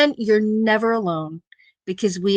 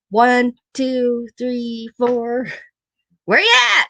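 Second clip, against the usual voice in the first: calling out; 2 semitones higher than usual. Retold or imitated. Husband counting, calling back to her.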